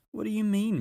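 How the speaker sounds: out of breath from climbing; panting up the steep bank. A narrator's reading. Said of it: "panted Peter".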